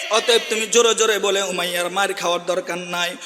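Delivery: hushed counsel. Acted. Abu Bakr softly advising Bilal, hushed. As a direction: talk him down gently.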